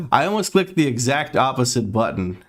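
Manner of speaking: talking through laughter; giggling while saying it; laughing. Real, not acted. Laughs at near-ban mistake.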